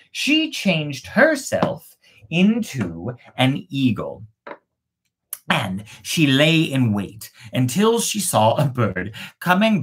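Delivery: measured storybook reading voice; story narration. A narrator's reading. Narrator telling the witch maiden tale, storybook reading. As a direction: read it like a fairy tale to listeners. Reads a fairy tale aloud.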